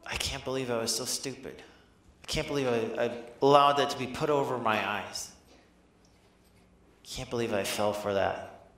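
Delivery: understated shame, sinking at the ends; a touch of self-reproach, haltingly; ashamed. Acted. Disciple blaming himself for being fooled, mild shame. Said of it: "Maybe there's even some shame".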